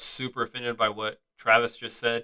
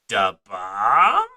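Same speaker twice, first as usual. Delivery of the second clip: movie quote; 2 semitones lower, 5 dB louder than usual. Retold or imitated. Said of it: "Where he says".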